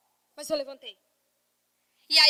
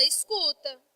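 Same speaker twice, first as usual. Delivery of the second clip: normal talking voice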